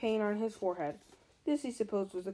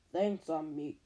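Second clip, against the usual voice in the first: hissing snake voice; 5 semitones lower, slower than usual. Acted. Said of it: "a low, hissing voice said".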